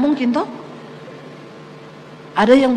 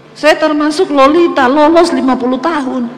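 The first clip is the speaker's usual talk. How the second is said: pun delivered through a laugh; laughing at her own pun; laughing joke; 5 dB louder than usual. Real, not acted. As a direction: chuckle out the wordplay. Joking about never being hospitalized.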